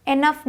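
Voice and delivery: इनफ mispronounced with an "e" at the start; wrong pronunciation. Shown as a demonstration. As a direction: open the first vowel of इनफ to "eh". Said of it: "इनफ नहीं बोलते". (इनफ को गलत, ए से शुरू करके)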